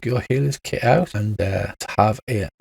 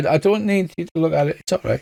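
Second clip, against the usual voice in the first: nervous wolf; 6 semitones higher, faster than usual. Acted. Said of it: "backs off, and says".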